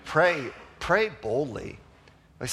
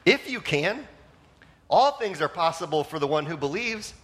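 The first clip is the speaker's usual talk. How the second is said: attitude; 3 semitones higher than usual. Retold or imitated. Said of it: "responds with an attitude".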